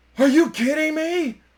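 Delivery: very high, loud, thrilled, disbelieving excited outburst. Retelling a friend's reaction to being asked to play goalie: imitating an excited friend. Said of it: "he was so excited".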